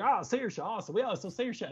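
high-pitched mock Southern twang; deep South twang. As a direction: imitate an upbeat Southerner. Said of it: "coming out with that accent".

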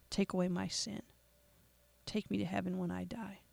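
quiet prayer. Shown as a demonstration.

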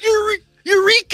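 high excited miner shout; old prospector. Pretend. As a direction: shout it like striking gold. Joining the prospector bit.

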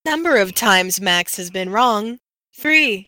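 flat automated robot voice. Pretend. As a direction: read it like a computer counter. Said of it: "she does make a good robot voice".

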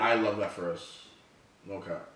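slow, deadpan-sarcastic praise; sounds sarcastic. Real, not acted. Friend praising the group's progress, sounding sarcastic. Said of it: "the sarcasm is just not necessary".

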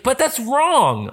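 high, drawn-out mock protest; retold indignant objection, stretched out high; imitating mad. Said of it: "She was so mad".

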